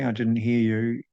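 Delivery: calm, even "I didn't hear you"; calm and matter-of-fact. Shown as a demonstration. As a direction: say it evenly, with no push on any word. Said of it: "if you say that calmly".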